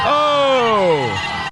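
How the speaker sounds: loud, high startled cry; surprised shout. Real, not acted. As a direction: jolt at the crash. Statue crashes down on video.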